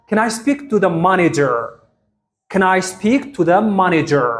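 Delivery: slow, careful teacher pronunciation; each word laid out for learners to copy; slow model sentence. Shown as a demonstration. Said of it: "ብፕሮናንሴሽን ተጠቒሞም ከመይ ከም ዘንብብዎ". (ቀስ ኢልካ ብጥንቃቐ ምድምጻጽ)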